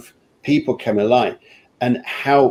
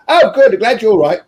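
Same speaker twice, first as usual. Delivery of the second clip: mock curt reply; 9 semitones higher, 5 dB louder, faster than usual. Mocking a curt modern reply.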